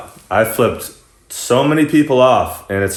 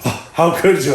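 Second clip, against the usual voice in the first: higher-pitched imitation of shock; mock offended girl; 5 semitones higher than usual. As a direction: act scandalized, lightly.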